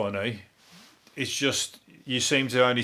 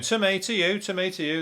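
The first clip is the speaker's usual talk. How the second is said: imitating Chuckle catchphrase; 7 semitones higher than usual. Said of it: "adults going".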